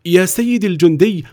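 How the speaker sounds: high, imploring plea to a soldier; humble pleading voice. Acted. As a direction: beg the soldier for mercy. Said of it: "وتوسل إليه أحد الرجال".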